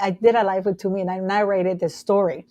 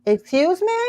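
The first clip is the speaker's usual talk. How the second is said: indignant surprise; 7 semitones higher than usual. Retold or imitated. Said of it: "And I'm like".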